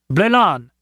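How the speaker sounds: "Blélan" carefully sounded out; careful, distinct "Blélan"; careful pronunciation. A narrator's reading. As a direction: say "Blélan" as a foreign word read carefully. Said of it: "he said carefully".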